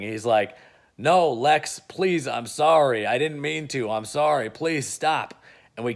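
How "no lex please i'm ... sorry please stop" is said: mock screaming plea. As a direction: plead in mock panic under torture. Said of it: "he's just screaming".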